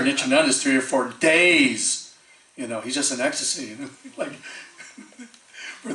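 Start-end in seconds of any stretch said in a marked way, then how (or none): 4.0-5.9 laughing through the words; amused disbelief with laughter. Real, not acted. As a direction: break into a real laugh, then carry on amused. Laughs while marvelling at the trance.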